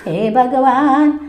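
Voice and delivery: slow, loud cry of panic; shouting. Acted. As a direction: yell it out, dragging the words. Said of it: "वो जोर से चिल्लाता है".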